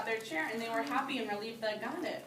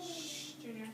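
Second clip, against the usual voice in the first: soft shush; 2 semitones higher, 11 dB quieter, slower than usual. Real, not acted. Teacher softly hushing Junior during the question. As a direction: quietly shush him mid-lesson.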